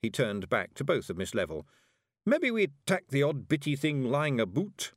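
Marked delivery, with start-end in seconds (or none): 2.3-4.9 high, cheerful Scots; a touch pleased with himself; happy Feegle. A narrator's reading. Daft Woolly cheerfully adds to Miss Level in high Scots. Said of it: "added Daft Woolly happily".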